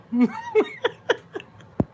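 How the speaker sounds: squealing laugh, high and loud; high burst of laughter. Real, not acted. Laughs at own joke.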